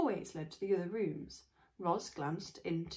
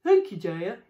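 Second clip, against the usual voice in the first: wink voice; 13 dB louder than usual. Acted. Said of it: "with a wink".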